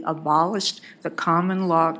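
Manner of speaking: hoarse, losing her voice; raspy whisper. Real, not acted. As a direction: voice giving out, hoarse. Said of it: "I'm losing my voice".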